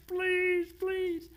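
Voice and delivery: high, pleading mock scream; a loud, hammed-up cry of please; retold scream. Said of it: "and he's screaming".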